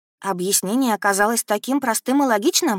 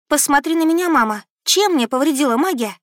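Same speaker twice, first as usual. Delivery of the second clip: горячо, с нажимом; 7 semitones higher, 4 dB louder than usual. Acted. Дочь взволнованно спорит с матерью.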